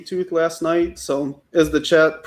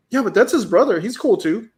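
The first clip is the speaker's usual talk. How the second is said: higher-pitched imitation of a kid arguing back; imitating insistent kid; 5 semitones higher than usual. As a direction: lightly mimic a kid making their case. Retold kid defending Loki.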